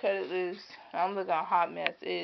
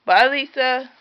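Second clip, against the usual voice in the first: high, loud sing-song coaxing; 7 semitones higher, 15 dB louder, slower than usual. Real, not acted. Mother coaxing her baby daughter, high sing-song baby talk.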